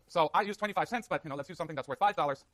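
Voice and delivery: slightly winded after climbing stairs; out of breath. Real, not acted. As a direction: talk while catching your breath. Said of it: "I'm so excited I'm out of breath".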